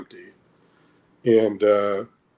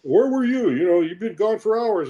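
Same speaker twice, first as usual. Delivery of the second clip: pitched-up alarmed questioning; mild mock scolding, higher than his own voice; worried adults scolding; 10 semitones higher than usual. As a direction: demand where the kid has been, high and urgent. Cops and mother confront kid.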